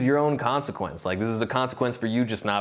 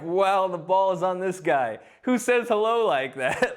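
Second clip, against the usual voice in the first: amazed; 6 semitones higher than usual. Retold or imitated. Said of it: "I was just like".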